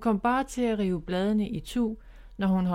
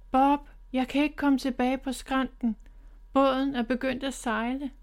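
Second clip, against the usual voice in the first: higher, worried call; calling for help; 5 semitones higher than usual. Acted. Miffy calls to Bob from the drifting boat, worried. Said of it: "råbte hun til Bob".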